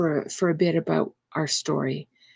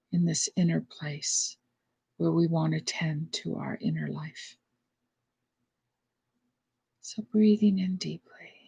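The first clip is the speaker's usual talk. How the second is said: guided meditation. Real, not acted. Leads slow breathing meditation.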